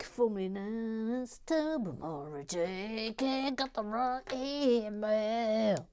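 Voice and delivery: slow, stretched vowels; slow, elongated name read-out; drawn-out read. Pretend. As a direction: draw each word right out, playfully.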